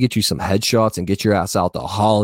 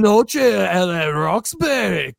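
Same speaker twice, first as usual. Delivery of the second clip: slow, higher put-on Irish accent; 6 semitones higher, much slower than usual. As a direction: stretch it out in a goofy mock Irish accent. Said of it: "I don't know why I went Irish".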